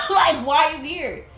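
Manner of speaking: loud, incredulous why are you here; exasperated shout. Retold or imitated. To the unexpected student, an exasperated shout. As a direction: throw the question out in disbelief. She and coworker react to kid.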